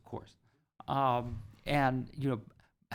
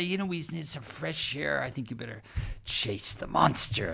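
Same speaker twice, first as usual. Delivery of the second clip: playful suggestion. Pretend. Playful game with young pupil.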